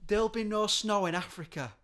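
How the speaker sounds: sarcastic lyric recital; mock solemn recital. Mock quoting song lyrics.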